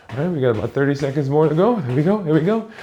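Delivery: energetic coach hype. Real, not acted. Coach hyping mid-exercise.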